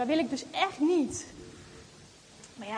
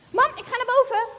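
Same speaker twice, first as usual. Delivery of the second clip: higher, louder call upstairs; 7 semitones higher, 6 dB louder than usual. Acted. Girl calling to mother while hiding the doll, call. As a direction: call out casually to mum.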